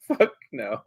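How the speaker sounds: unvoiced mock whisper; whispered fuck no. Delstria whispering her refusal. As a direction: mouth it under the breath. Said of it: "Delstria's like".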